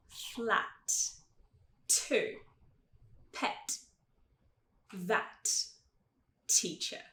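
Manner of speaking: crisp T with air, no tch, in "Flat. To. Pet. That. Teacher"; tongue-tip T in "Flat. To. Pet. That. Teacher", word by word; airy English T. Shown as a demonstration. Teacher leading practice, clean aspirated T in "Flat. To. Pet. That. Teacher". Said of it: "Então vamos tentar".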